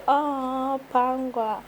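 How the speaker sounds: soft, cooing mock swoon; imagined touched reaction. Host voicing cousin's touched heart, softly tender. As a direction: sigh the name softly, as if moved. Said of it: "You're like".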